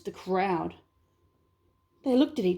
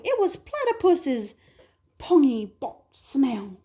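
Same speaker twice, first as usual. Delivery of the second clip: whispered blame; 4 semitones higher, 4 dB louder than usual. Acted. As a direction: drop to a sly whisper. Animal blames platypus.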